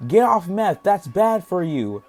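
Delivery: mock-helpful scolding, stretched out; trolling. The speaker trolling the lady about meth, mock advice. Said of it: "Simon was trolling her".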